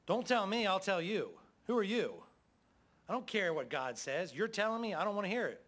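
defiant Pharaoh. Acted. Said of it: "And Pharaoh said".

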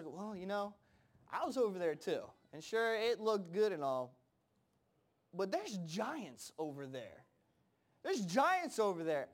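mock-wary spy reporting back; reluctant doubter. Other spies voiced as reluctant doubters.

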